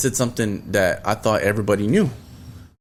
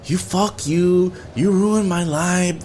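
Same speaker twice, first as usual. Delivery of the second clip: imitating a drawn-out, higher-pitched tearful wail; mildly mock a woman crying, slow and higher; retold crying outburst; 6 semitones higher, slower than usual. Upset guest outside the party, mock tearful. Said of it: "she's over there crying outside".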